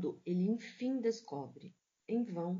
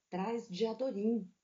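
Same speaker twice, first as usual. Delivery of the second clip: literary reading. A narrator's reading. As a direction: read it like a mournful novel passage. Literary reading of Grande Sertão.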